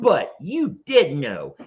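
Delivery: slow, mock-emphatic reading; all-caps voice. Streamer acting out an all-caps comment, mock emphatic. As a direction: hammer out each word a little. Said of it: "so I'm gonna talk in all caps".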